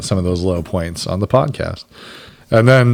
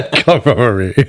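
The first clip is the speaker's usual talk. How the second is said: laughing; 5 semitones higher than usual. Real, not acted. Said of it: "Neither was I".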